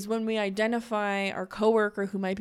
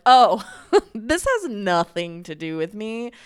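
louder, laughing it off; laughing relief; 8 dB louder than usual. Retold or imitated. Telling coworkers a snap isn't personal, laughing it off. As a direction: brush it off with a laugh. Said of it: "when you're like".

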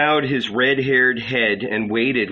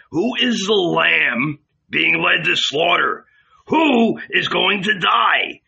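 urgent, raised-pitch demand; alarmed questioning; 7 semitones higher, 4 dB louder than usual. Acted. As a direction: press the questions, climbing higher and more agitated. Judas alarmed at the prophecy.

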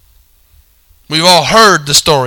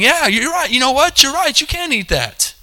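inner voice; 8 semitones higher, 4 dB quieter than usual. Retold or imitated. Her own inner voice.

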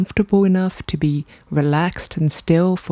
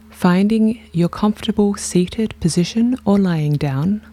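guided meditation. Real, not acted. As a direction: lead them gently through each breath, unhurried.

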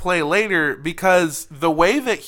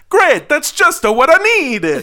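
sarcastic; 9 semitones higher, 6 dB louder than usual. Retold or imitated. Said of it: "Luigi responded".

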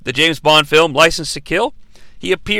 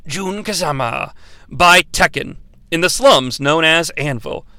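announcer voice; 2 semitones lower than usual. Pretend. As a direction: read it like an epic trailer voice. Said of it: "let me get my announcer voice guy thing going".

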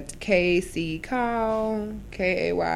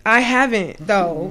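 indignant denial; 7 dB louder, slower than usual. Retold or imitated. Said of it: "I'm like".

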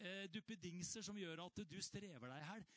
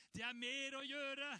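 a higher, louder mock cry; 8 semitones higher, 6 dB louder than usual. Preacher mocking the wrong words of the cross as a higher, louder cry. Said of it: "Hva ropte han?".

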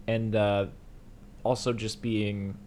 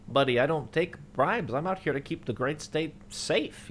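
slightly higher, slow self-righteous cop; lightly voiced smug cop; 5 semitones higher than usual. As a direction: puff up like a small-town lawman. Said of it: "he's like".

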